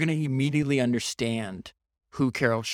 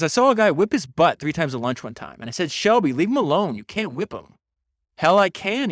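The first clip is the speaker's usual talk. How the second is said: louder, lightly faked Texas accent; fake Texas drawl; 5 semitones higher, 4 dB louder than usual. Schoolfriend warning Shelby off a fight, fake Texas drawl. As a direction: slip into a poor imitation Texas drawl. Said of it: "this fake Texas drawl".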